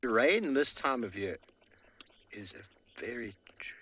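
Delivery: glitchy robotic internet voice; breaking up like a bad stream. Real, not acted. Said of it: "Sorry about the robotic voice there".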